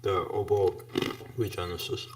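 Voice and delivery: chewing ice while talking; ice in mouth. Real, not acted. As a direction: talk around crunching ice cubes. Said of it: "Harold's saying I'm, I'm chewing my ice cubes a bit too loud".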